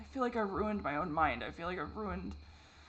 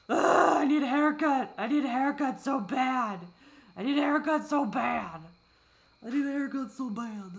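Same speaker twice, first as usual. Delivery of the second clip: loud exasperated groan; 6 semitones higher, 8 dB louder than usual. Real, not acted. Staring at her messy hair, loudly fed up.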